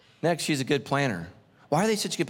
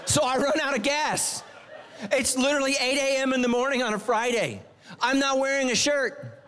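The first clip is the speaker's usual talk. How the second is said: laughing; 7 semitones higher than usual. Real, not acted. Preacher laughing to the congregation about running out of gas. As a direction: laugh at your own bad luck as you tell it.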